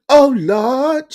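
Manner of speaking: high exasperated cry; oh lord. Real, not acted. Host groaning at the re-virginized claim, high. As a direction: throw it up high in mock despair.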